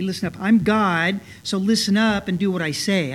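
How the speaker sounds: stern mock command, mildly hard; a touch of a bossy, demanding God; hard edge. Preacher voices what God didn't say, with a mildly hard edge. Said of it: "spoken with a hard edge to them".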